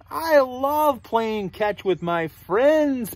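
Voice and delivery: slow, drawn-out delight; piggy character. Acted. Piggy enjoys catch with friends, slow delighted voice. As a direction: relish each word, lightly voiced piggy. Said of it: "Piggy says".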